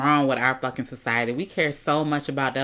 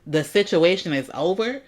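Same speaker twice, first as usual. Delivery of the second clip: incredulous echo; 4 semitones higher, 4 dB louder than usual. Retold or imitated. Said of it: "real interesting way to talk".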